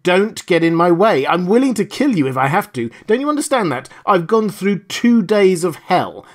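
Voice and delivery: loud, high threats of a desperate man; furious threats. Acted. Desperate captive threatens his kidnapper, a loud furious rant. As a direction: threaten him, voice blazing.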